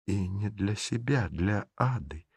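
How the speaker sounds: soft, quiet whisper. Acted. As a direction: breathe it humbly. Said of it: "шепнула". (шёпотом)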